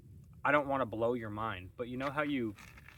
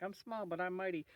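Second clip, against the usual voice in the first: higher-pitched voice for a small banana tree; feisty little plant; 9 semitones higher than usual. Acted. Grower voices Little Kim, the aggressive little banana tree, feisty and high. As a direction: play a small but mighty banana plant. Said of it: "She's been really aggressive".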